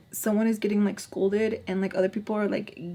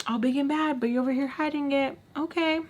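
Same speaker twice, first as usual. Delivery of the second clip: mock taunt; 6 semitones higher than usual. Mocking friend hiding towels.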